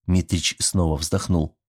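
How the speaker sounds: ordinary talk, nothing marked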